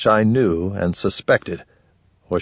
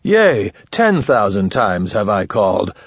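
mock solemn lament. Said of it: "I've cried a thousand times".

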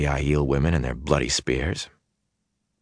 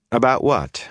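cautious; 6 semitones higher than usual. A narrator's reading. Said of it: "Matt asked cautiously".

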